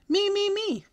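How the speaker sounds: loud, high eager pleading; hollered real loud. A narrator's reading. Girl begs teacher to be called on, loud eager squeal. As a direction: beg to be chosen at the top of your voice. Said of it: "I hollered real loud".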